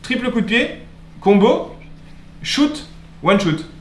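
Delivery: high, hyped play-by-play calls; esports caster. Acted. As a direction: shout the combo like a caster. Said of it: "t'avais commenté les Worlds".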